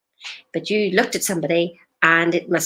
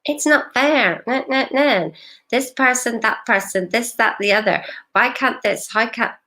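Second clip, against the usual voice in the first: higher-pitched imitation of nagging inner grumbles; mock complaining; 4 semitones higher than usual. Coach mimicking their own endless inner complaints, mock whining. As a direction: rattle off petty gripes in mock indignation. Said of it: "Mine just went on and on and on".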